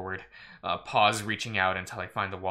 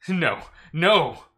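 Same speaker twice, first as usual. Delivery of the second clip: higher, louder frightened "no"; alarmed, pitched-up denial; panicked whisper; 8 semitones higher, 7 dB louder than usual. A narrator's reading. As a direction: cry out in dread, the second one louder. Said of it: "I whisper in the blackness".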